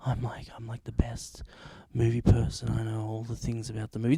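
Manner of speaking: smug movie snob, hushed and sneering; mock know-it-all. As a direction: mimic the know-it-all film buff. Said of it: "they're like".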